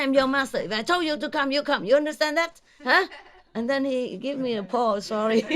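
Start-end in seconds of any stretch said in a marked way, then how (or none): 0.0-3.1 mock scolding. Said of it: "I scold him a lot".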